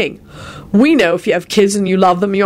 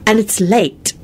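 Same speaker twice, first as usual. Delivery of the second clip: firm, higher reminder; mildly scolding; stern; 4 semitones higher, slower than usual. Acted. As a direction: add it pointedly. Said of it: "Elizabeth said sternly".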